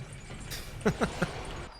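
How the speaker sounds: soft high breathy laugh; a quiet breathy chuckle; airy laugh. Real, not acted. Laughing at the story.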